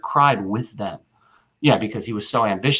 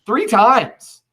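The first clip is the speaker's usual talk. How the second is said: Three hit high and loud; stress on Three; 10 semitones higher, 5 dB louder than usual. Shown as a demonstration. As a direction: punch Three times up high. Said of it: "offered the crown three times".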